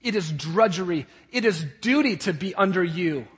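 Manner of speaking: loud, emphatic grievance; resentful son. Acted. Son who views serving his father as slavery, resentful. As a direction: voice the son's resentment of duty. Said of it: "he views it as slavery".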